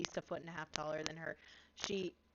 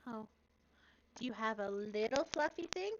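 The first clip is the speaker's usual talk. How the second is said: high, eager question; hopeful little girl; 5 semitones higher than usual. Acted. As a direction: ask sweetly, hoping for something tiny. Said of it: "She, like, holds up".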